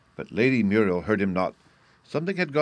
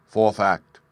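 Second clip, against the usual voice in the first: proclaiming; 8 dB louder than usual. A narrator's reading. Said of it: "he proclaimed with a sudden change of tone".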